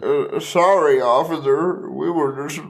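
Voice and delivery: lightly voiced, polite nerdy white guy; a hint of an innocent square talking to police. Suggesting how to talk to the officer, lightly voiced white guy. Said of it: "Dave Chappelle white guy voice".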